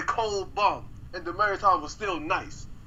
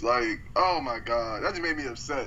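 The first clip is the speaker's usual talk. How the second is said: laughing mock anger; 3 semitones lower than usual. Real, not acted. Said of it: "I'm really mad".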